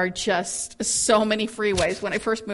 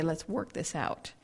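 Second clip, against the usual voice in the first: controlled calm voice; 4 semitones lower, 4 dB quieter than usual. Shown as a demonstration. A speaker showing how to voice anger in love, calm controlled voice. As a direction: calmly invite them to work it out. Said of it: "in a very controlled voice".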